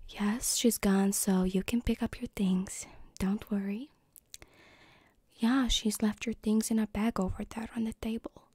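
lightly voiced polite mom; a hint of a reassuring mother. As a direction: play a mom, only slightly put on. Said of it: "I'm trying to do my mom voice now".

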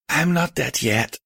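high, weak and strained. Acted. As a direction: call out weakly from a sickbed. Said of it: "a weak voice called out".

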